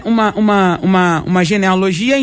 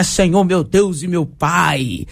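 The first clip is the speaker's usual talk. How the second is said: slow, lower, theatrical churchy prayer; mock pious prayer voice; 5 semitones lower, slower than usual. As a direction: ham up an overly solemn sister praying. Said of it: "a gente confunde entonação de voz". (imitando com voz de oração teatral, lenta e grave)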